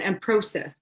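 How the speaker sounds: Canadian "process" with a long "o" as in proh-cess; Canadian accent. Shown as a demonstration. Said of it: "Process always gets me".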